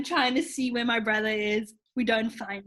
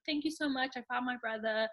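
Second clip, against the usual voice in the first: soft thanks; 7 dB quieter than usual. Retold or imitated. Thanking info desk man again.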